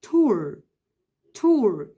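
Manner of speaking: tour held out slowly as its own beat; syllable by syllable. Shown as a demonstration. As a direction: stretch tour slowly, apart. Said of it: "ده syllable".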